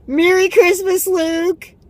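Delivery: high, loud excited mom voice; squealing motherly hello; mom's cheerful greeting. Retold or imitated. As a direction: sing it out like an overjoyed mother. Mom voiced in retold call.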